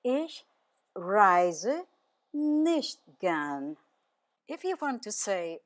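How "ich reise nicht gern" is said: "Ich", pause, "reise", pause, "nicht gern"; deliberate teacher's model with gaps; word-by-word repeat. Shown as a demonstration. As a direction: break it up for learners to copy.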